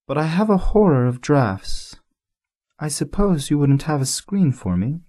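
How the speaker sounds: complaining with delicate airs; fussy flower. A narrator's reading.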